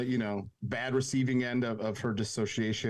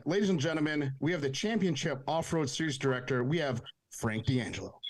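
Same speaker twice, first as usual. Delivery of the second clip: announcer intro. Acted. Host introduces the guest.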